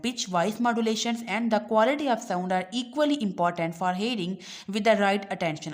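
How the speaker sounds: reading the English line slowly and deliberately; slow textbook reading. Acted. Teacher reading the textbook aloud to students, slow and deliberate. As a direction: read it out word by word for the class.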